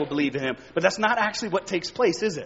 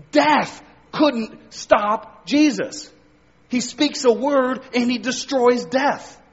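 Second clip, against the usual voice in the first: stack each line heavier than the last; preaching build; 2 semitones higher than usual. Acted. Building list of what couldn't stop Jesus.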